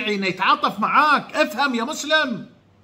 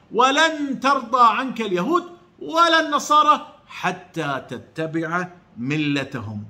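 slow, drawn-out recitation, falling at the end; Quran recitation; slower than usual. Acted. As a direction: recite the verse slowly and solemnly. Quotes the verse again.

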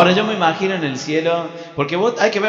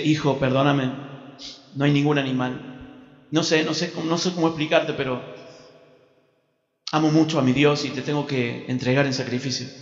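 reluctant apology; 2 semitones lower, 5 dB quieter than usual. Acted. Father apologises before sacrificing son.

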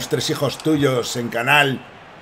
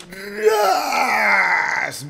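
high drawn-out yelled sound effect; shrill sustained "ras" cry; long high shout; 13 semitones higher than usual. Real, not acted. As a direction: stretch it out high as the play breaks. Calling the play in game.

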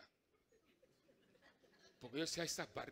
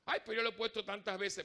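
protesting seamstress; 5 semitones higher, 5 dB louder than usual. Retold or imitated. Carlota protests while sewing.

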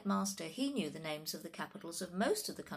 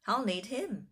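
higher, louder proud sister; 6 semitones higher, 5 dB louder than usual. A narrator's reading. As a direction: marvel proudly, with emphasis. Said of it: "said Laura proudly".

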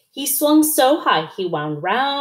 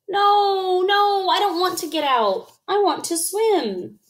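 put-on protesting child; 10 semitones higher than usual. A narrator's reading. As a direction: refuse like a stubborn little one. Child refuses to leave pond.

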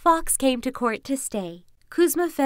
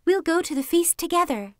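fox voice; 7 semitones higher than usual. Acted. Fox voice, story figure.

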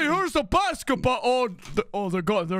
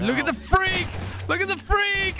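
excited shout; 3 semitones higher than usual. Real, not acted. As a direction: shout it out with glee. Gleeful shout at other player.

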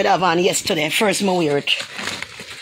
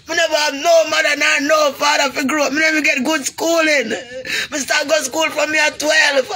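higher, tearful raised voice; crying shout; 4 semitones higher than usual. Real, not acted. Telling viewers of growing up without parents, crying out. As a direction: cry it out, pleading to be heard. Repeats, raising voice in distress.

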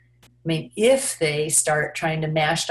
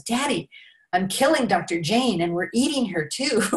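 higher, lightly voiced excited kid; a hint of a delighted little kid; gleeful child; 4 semitones higher than usual. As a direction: announce it like a child to Daddy. Child proudly tells Daddy the game.

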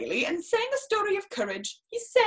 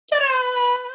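high, louder showy flourish; showman ta-da; 8 semitones higher, 5 dB louder than usual. Acted. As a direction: present the trick like a circus act. Juggling cat finale.

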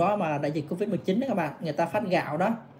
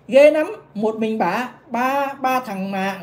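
very slow, drawn-out, louder scandalised read; mock astonished reading; 2 semitones higher, 4 dB louder, much slower than usual. The vlogger reads a gossip message aloud, drawn-out mock shock. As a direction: stretch each word like juicy gossip.

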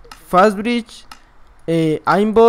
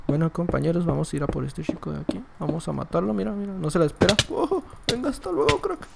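hushed commentary; 9 dB quieter than usual. Shown as a demonstration. To his viewers, showing how he'd have to commentate: hushed. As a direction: murmur the play-by-play so the neighbours don't complain. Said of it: "va a estar un poco complicado hablar así".

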